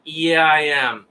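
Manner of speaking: slow, curt reply as the woman, lightly voiced; a hint of a bored woman brushing him off; mock curt answer; short flat answer. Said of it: "Short answer".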